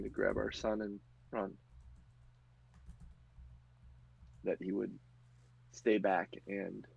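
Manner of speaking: lightly voiced widow holding back tears; mother recounting her husband's last stand; grieving mother. GM voices the woman telling her loss.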